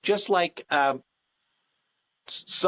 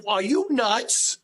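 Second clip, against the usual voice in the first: slow disbelief; 5 semitones higher, much slower than usual. Retold or imitated. Husband reacting to wife.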